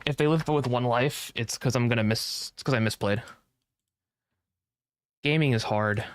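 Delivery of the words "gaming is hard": words around a sip of coffee; talking between sips through a straw; drinking while talking. Real, not acted. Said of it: "sorry, I'm drinking Starbucks".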